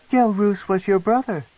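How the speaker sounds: high, intrigued noblewoman; a proud matron, curious and cold; matron's voice. A narrator's reading. The matron questions the captive, high and probing.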